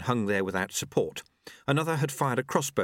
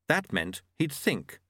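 ordinary delivery

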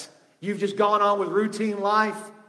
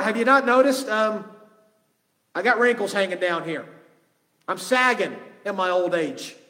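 put-on mildly sarcastic retelling of an incredulous old man; lightly mock the promise as doubtful; 2 semitones higher than usual. Old priest answering an angel about a promised baby, mildly sarcastic. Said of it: "may have even said this sarcastically".

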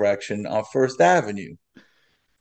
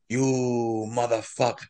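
cursing victim; 6 dB quieter than usual. Retold or imitated. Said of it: "he keeps cursing me".

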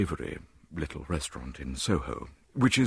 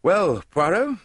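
louder, higher, impatient call; impatient cry; 13 semitones higher, 9 dB louder, slower than usual. Acted. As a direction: burst out at him. I cried impatiently.

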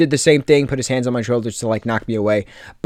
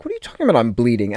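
taken aback; 3 semitones lower, 3 dB quieter, much faster than usual. Retold or imitated. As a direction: quote your own startled reaction, pitch jumping up. Acted reaction to being told.

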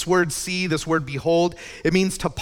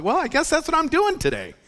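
mock resigned; 12 semitones higher than usual. Retelling answering the surprise call.

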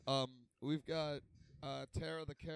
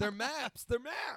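louder, higher insistence; emphatic insistence; 7 semitones higher, 6 dB louder, much slower than usual. Real, not acted. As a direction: insist on the word. Insisting on term.

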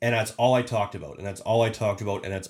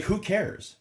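Jayleen dismissive; 11 semitones higher than usual. Retold or imitated. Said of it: "She's like, like".

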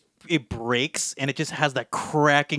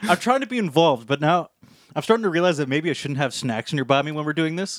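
mouth full. Real, not acted. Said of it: "like, munching down".

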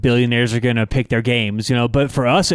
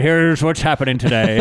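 Walter Cronkite voice. Retold or imitated. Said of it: "He did, like, a Walter Cronkite".

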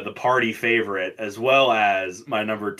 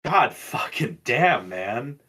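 amazed reaction; much slower than usual. Real, not acted. Still reacting to the strong tequila.

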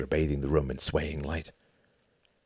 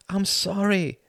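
genuine contrition; 14 semitones higher, 3 dB louder, slower than usual. Acted. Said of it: "said Hart with genuine contrition".

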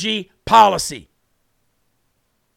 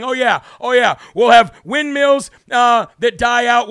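mock Trump quote; 5 dB louder than usual. Host quoting Trump on windmills, mock and louder. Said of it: "made fun of President Trump for saying".

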